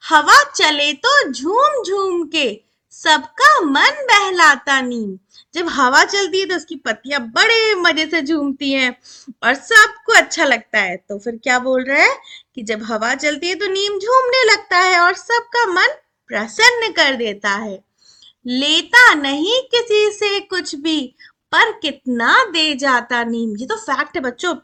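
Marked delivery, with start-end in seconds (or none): 0.1-5.2 slow, drawn-out verse reading; poem recitation. Shown as a demonstration. Teacher reads the neem poem to children, slow recitation. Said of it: "अब आगे देखो". 18.5-23.6 slow, drawn-out verse reading; poem recitation. Shown as a demonstration. Teacher reads the neem poem to children, slow recitation. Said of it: "चलो अब कविता पढ़ते हैं".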